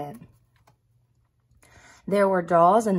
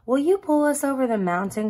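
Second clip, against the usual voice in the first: crying out; 6 semitones higher, 3 dB louder, faster than usual. A narrator's reading. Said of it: "cried the dolls and toys".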